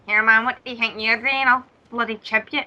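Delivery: lightly acted Glasgow accent; casual threat in Glaswegian Scots; everyday Glaswegian challenge; Glaswegian local. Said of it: "this would be the scenario in Glasgow".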